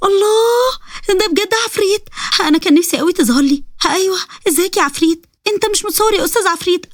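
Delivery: put-on high-pitched gushing girl; thrilled, high and coaxing; starstruck Sara. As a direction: fawn over the demon in a high, girlish voice.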